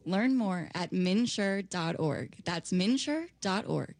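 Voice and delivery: slow, smooth announcer read; radio voice. Shown as a demonstration. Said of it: "say that in your radio voice".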